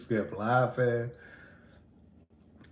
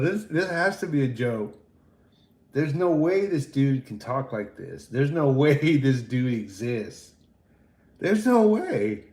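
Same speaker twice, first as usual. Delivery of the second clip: amused disbelief; 4 semitones higher, 5 dB louder than usual. Retold or imitated. Incredulous inner thought, laughing.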